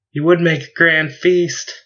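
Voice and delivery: high, eager piping voice. Acted. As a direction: pipe up brightly from the crowd. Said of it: "an engineer piped in".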